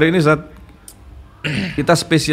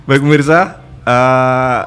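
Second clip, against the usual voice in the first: announcer handover. Acted. Host formally hands over to the ustadz, announcer voice. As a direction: hand the show over with ceremony.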